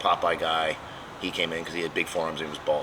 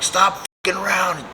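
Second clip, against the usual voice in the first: retold yell; 11 semitones higher, 4 dB louder, slower than usual. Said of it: "whatever I yelled".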